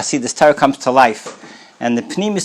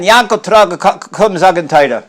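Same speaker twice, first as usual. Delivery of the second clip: higher, louder repeated summons; calling again, louder; 4 semitones higher, 4 dB louder than usual. Retold or imitated. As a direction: call him a second time, insisting.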